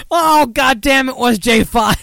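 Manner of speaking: high, loud cracked-up outburst; laughing shout. Real, not acted. Cracking up at a viewer's joke, loud and high. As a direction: yell it through laughter.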